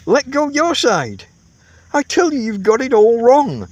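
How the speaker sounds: high, loud, furious roar. A narrator's reading. Camper roars at his tentmate in fury. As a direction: bellow at him, losing your temper. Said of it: "you roar".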